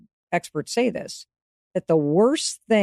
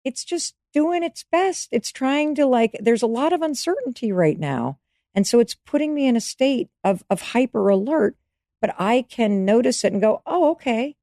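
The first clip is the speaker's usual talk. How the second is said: higher, cooing over your own poor little body; tender self-comfort; 7 semitones higher than usual. Pretend. Comforting your own stressed body and brain, tender and high. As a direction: soothe yourself like a fond parent would. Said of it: "just go".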